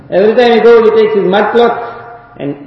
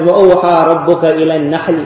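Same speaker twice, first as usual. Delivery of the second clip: quick recitation; much faster than usual. Real, not acted. Quranic verse recited.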